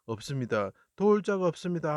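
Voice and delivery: high pleading cry to God. Acted. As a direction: call out in anguish, voice lifted high. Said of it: "하고 크게 부르짖으실 때".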